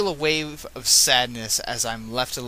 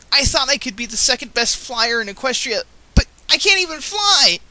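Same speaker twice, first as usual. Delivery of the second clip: high, loud, anguished yell; 11 semitones higher, 7 dB louder than usual. Acted. Scootaloo yelling to Rainbow Dash that she can't fly, anguished. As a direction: cry it out, rising to a wail. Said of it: "I was yelling".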